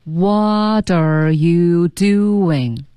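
extremely drawn-out, every syllable held long; very slow repetition. Shown as a demonstration. Teacher leading repeated practice, extremely slow. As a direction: stretch each word as far as it goes. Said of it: "我们再说几遍".

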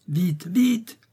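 high urgent yell, moderate volume; narrated yell, pitched well up. A narrator's reading. Enraged Franz Rode hurrying his men, yelling. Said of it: "hurla-t-il".

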